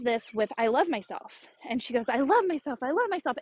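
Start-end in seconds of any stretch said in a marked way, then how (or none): 2.1-3.4 quick, higher-pitched repeated chant; lightly acted childlike insistence; imitating eager daughter. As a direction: mimic a small child eagerly repeating an affirmation. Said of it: "she says it until she's out of breath".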